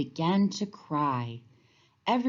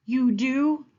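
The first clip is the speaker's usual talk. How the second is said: smiling; 8 semitones higher, 5 dB louder than usual. A narrator's reading. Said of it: "smiled Moose".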